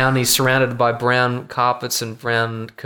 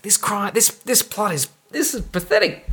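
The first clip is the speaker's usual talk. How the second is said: sarcastic; 7 semitones higher, 3 dB quieter than usual. Retold or imitated. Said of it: "agitated and sarcastic".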